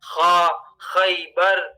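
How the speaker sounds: slow khaybar with a gargled, throaty kh in خیبر; gargled kha. Shown as a demonstration. Teacher showing learners the kha sound, gargled kh in خیبر. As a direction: draw out خا and خیبر, kh scraped as in gargling. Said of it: "جب پانی لیتے ہیں تو خا".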